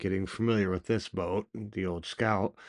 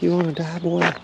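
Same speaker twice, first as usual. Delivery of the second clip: tough-dog voice; 9 semitones higher, 5 dB louder than usual. Retold or imitated. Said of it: "She'll be like".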